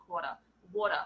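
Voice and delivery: quarter and water with no R, kwaw-tah and waw-tah; water said wor-tah with no R; Australian vowels. Shown as a demonstration. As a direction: drop every R, lazy Aussie mouth. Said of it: "it's as lazy as you possibly can".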